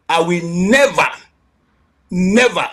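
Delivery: "never" twice, each slowly and heavily stressed with a falling tune; NEVER in capitals. Real, not acted. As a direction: lean hard on both "never"s, with a pause between.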